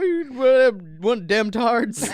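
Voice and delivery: hammed-up Southern US accent; southerner. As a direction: holler it like a comic Southerner. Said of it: "sounds like you're a southerner talking about".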